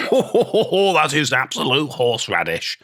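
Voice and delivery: high, drawn-out laughing scoff; scornful laughing dismissal. Acted. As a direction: laugh it off, high at first and slow. Interviewee laughs off the claim.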